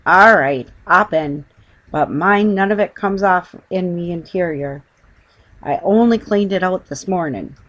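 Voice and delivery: loud, rough Cockney cabbie; lightly Cockney taxi driver grumbling; gruff cabbie. Acted. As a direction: grumble it like a put-upon London driver.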